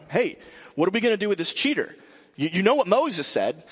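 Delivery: mock shouting. Accusers badgering Jesus as he writes, mock shouting. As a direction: imitate a badgering crowd's shout. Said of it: "like, shouting at him".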